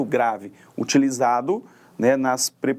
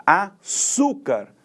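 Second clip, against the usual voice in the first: açúcar drawn out slowly, ÇÚ high and strong; stress on penultimate syllable; 4 semitones higher, much slower than usual. Shown as a demonstration. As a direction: pause after a, then lean on ÇÚ. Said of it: "com mais intensidade, com mais força". (açúcar bem devagar, com força no ÇÚ)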